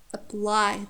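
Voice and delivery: "apply" with a weak uh, stressed PLY; careful "apply" said uh-PLY; unstressed first syllable. Shown as a demonstration. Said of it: "it's unstressed".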